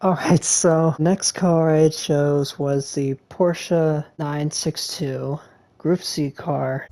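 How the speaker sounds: slow, winded after a hard lap; out of breath. Real, not acted. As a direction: catch your breath between words. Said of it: "I'm out of breath".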